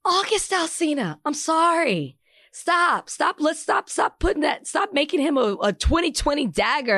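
high, loud, laughing pleas to stop; laughing protest. Real, not acted. Cohost pleading to end the penis talk, high laughing protest. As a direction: beg him to drop it, half laughing. Cohost begging to drop the topic.

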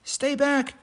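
high stern squirrel shout. Acted. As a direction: warn them off high. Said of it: "shouted Bruce".

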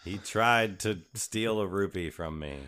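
slow proclamation, lightly voiced; mock public announcement; town crier. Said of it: "Hear ye, hear ye".

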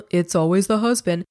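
laughing through the cliché; quoting the parents' suspicion with a laugh. Retold or imitated. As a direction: chuckle as you say it.

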